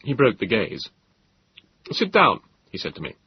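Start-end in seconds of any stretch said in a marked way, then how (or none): 1.9-2.4 high, hurried polite host; flustered host. Acted. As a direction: remember your manners, a bit flustered. Host urges seat.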